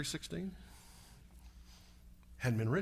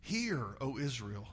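softer, lower and slow; mild hushed Moses; 4 semitones lower, 7 dB quieter than usual. Retold or imitated. Moses back from the mountain, speaking softly. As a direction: say it gently, like a solemn charge. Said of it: "he comes back and says".

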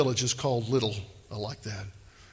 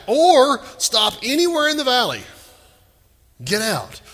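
emphatic command; 8 semitones higher, 5 dB louder than usual. Shown as a demonstration.

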